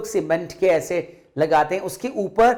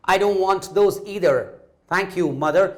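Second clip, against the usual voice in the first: slow polite refusal; much slower than usual. Acted. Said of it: "Neena ने तब भी अपना हेड ना में शूक".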